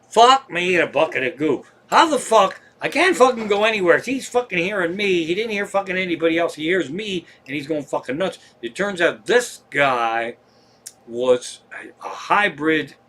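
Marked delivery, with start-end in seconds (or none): 0.1-8.4 comic exasperation, raised pitch at first, then settling; exasperated inner rant. Retold or imitated. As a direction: rant in mock despair at being spotted. Voices own exasperated inner reaction.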